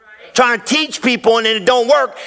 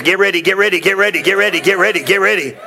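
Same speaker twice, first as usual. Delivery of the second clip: imitating T D Jakes; 2 semitones lower, faster than usual. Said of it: "I wanna be T D Jakes".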